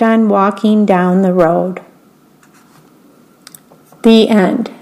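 put-on reading a picture book aloud to children; story narration. A narrator's reading. Volunteer reader telling children a bedtime story, gentle narration.

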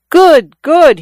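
gleeful high cry, loud and delighted; big bear of a sailor crowing with delight. Acted. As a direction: shout it out with drunken joy. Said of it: "he cried in high glee".

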